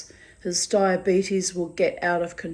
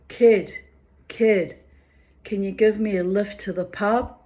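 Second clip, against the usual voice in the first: neighbour's voice; 3 semitones higher, 5 dB louder than usual. Retold or imitated. Neighbour John asks for lift.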